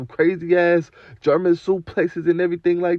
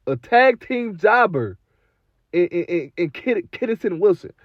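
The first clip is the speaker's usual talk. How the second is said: incredulous; 3 semitones higher than usual. Real, not acted. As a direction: drag it out in disbelief. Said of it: "incredulous repeat".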